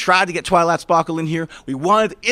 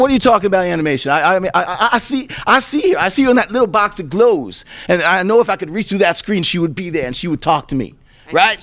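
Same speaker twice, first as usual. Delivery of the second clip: deluded fan plea; 3 dB louder than usual. Acted. Host pleads cartoon is real.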